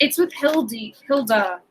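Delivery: ordinary talk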